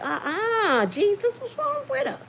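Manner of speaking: high, rising, half-whispered shock; appalled disbelief. Retold or imitated. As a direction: gasp it out, appalled. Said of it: "I was sitting there like".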